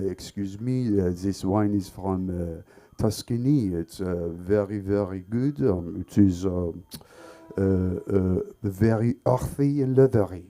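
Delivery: pompous sommelier. Retold or imitated. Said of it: "wine expert called the sommelier".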